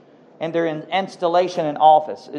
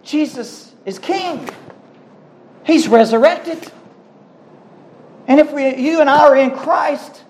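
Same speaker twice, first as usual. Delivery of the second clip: raised-pitch sermon exhortation; emphatic pulpit delivery, pitched up; impassioned preaching; 6 semitones higher than usual. Real, not acted. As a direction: proclaim it to the congregation with conviction.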